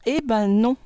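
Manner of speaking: playful retort. Acted. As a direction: tease the students, then deny. Teacher retorts to imagined objection. (réplique taquine, plus aiguë)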